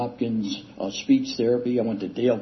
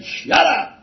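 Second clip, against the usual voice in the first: a much higher, louder mock snap; mock sponsor; 7 dB louder than usual. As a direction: bark it like the gruff sponsor. Sponsor snaps at him.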